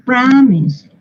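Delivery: "promise" as PRA-mis, first vowel stretched; slow teacher's model of "promise", open stressed A; stress first syllable. Shown as a demonstration. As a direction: lean slowly on "pro" in "promise", weak ending. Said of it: "Por eso les pongo el acento".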